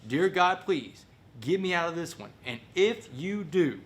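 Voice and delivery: high, pleading prayer, acted out; bargaining prayer. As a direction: beg God for a deal, slowing at the end. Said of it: "I'd say the same prayer".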